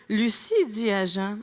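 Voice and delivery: slow, measured reading of a line; rereading aloud. Acted. Jostled metro reader rereading one phrase, slow deliberate reading. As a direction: read it slowly, starting the sentence over. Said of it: "relire la même maudite phrase".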